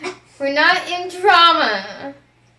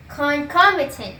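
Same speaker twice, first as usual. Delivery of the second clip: slow, careful teacher demo; slow model word. Shown as a demonstration. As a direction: spell it out slowly for the class. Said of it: "you're gonna say exactly how I say it".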